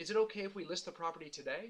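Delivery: rising pitch upswing at the end on today. Showing how people who don't sell as much ask questions, rising pitch at the end. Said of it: "you see how my voice fluctuated upwards".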